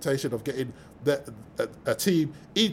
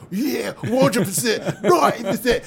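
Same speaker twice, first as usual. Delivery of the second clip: mock fans; 8 semitones higher, 3 dB louder than usual. Fans' overconfident predictions.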